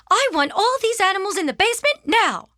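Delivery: high, exasperated mother's command; fed-up mom putting her foot down; stern order. Acted. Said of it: "she ordered".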